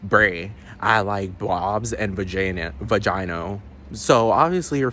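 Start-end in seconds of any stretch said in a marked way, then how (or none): 0.1-3.6 ridiculous mock reply. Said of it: "the most absurd way".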